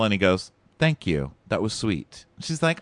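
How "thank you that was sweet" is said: understated, imitated polite brush-off; curt, polite thanks. Imitating his answer to her romantic speech, curtly polite. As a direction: retell it with brief, cool courtesy. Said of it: "curt, polite smile".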